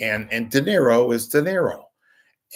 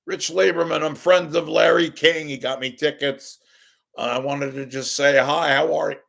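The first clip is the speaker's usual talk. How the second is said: mild retold shout, somewhat raised; calling out; 5 semitones higher, 5 dB louder than usual. Fan introducing himself to his idol, calling out. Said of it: "I yell out".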